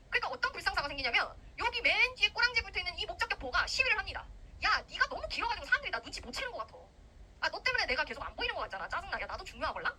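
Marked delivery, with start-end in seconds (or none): 4.6-9.9 mock annoyed. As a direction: grumble like a put-upon, jealous rival. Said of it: "하면서 얘가 막 화내".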